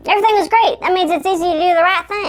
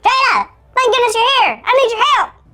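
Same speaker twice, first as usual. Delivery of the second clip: higher squeaky elf voice; cartoon elf voice; 9 semitones higher than usual. Shrunken Carl begging Jada for help, squeaky elf voice. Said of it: "sound like a cartoon elf".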